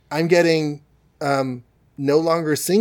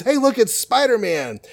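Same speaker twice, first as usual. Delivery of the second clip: higher excited goon voice; henchman's call; 9 semitones higher than usual. Retold or imitated. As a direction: yelp it out like a startled thug. Henchmen spotting Spider-Man.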